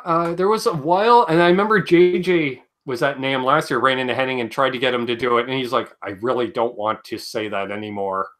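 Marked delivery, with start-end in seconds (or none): 6.0-8.3 lower, softer, holding back; low, reluctant mumbled quote; reluctant retold refusal. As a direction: imitate someone quietly begging off.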